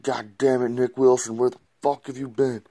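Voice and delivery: retold pissed rant. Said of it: "He's so pissed".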